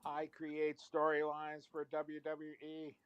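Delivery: slow, even robot delivery. Acted. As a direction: read it like a machine. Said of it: "it's the robot".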